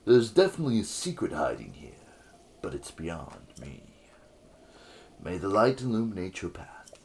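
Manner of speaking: smooth flirty bard voice; lightly voiced seductive bard; Cass sexy bard voice. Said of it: "can you give him a sexy bard voice?".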